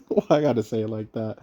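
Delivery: laughing through the question at his own words. Real, not acted. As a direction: chuckle as you ask it, amused at yourself.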